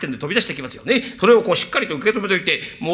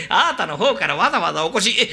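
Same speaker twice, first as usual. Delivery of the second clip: chuckling, rising welcome; laughing welcome. Acted. Zen laughing as he welcomes the young master. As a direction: greet him laughing.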